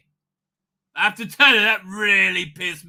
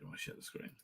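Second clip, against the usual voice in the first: quoting himself; 24 dB quieter than usual. Retold or imitated. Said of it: "I said".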